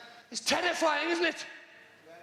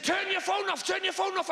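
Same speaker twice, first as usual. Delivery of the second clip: barked order; 4 semitones higher than usual. Retold or imitated. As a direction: snap the order at him twice. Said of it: "She said".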